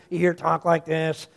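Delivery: light robotic computer-voice impression; Stephen Hawking. Preacher showing the church how he talked through a computer, lightly imitated monotone computer voice. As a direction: talk in a low monotone like a speech synthesizer. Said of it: "shouldn't do Stephen Hawking's voice".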